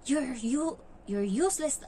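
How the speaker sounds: a child's high, mock-angry curse at her mother, in a voice unlike the speaker's; child cursing. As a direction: throw the curse like a spoiled kid. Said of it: "Minumura din yung amo niyang babae".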